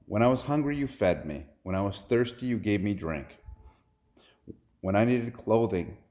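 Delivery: lightly preached list, lifting each opening; scripture preaching. Retold or imitated. Lord speaks to those on his right, preaching.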